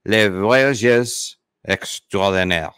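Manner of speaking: slow, careful French pronunciation; poor French accent. Real, not acted. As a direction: attempt the French name slowly in an American accent. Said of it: "my French pronunciation is, it's not great".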